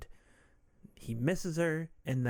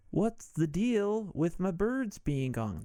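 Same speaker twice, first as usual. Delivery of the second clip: Michael Douglas impression; 6 semitones higher, slower than usual. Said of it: "That's what Michael Douglas actually sounds like".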